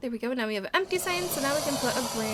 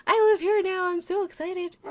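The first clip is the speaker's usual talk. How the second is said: bunny voice; 6 semitones higher, 7 dB louder than usual. Pretend. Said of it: "He's like".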